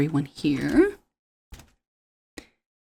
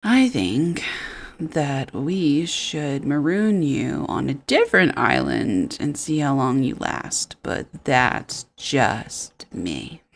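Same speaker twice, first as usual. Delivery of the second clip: mock-polite snub; 3 semitones lower, slower than usual. Mock reply to Karen's corporate pitch.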